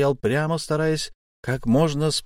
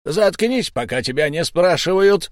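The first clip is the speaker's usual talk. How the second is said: angry snap; 6 semitones higher, 4 dB louder than usual. A narrator's reading. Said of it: "сердито оборвал его Сильвер".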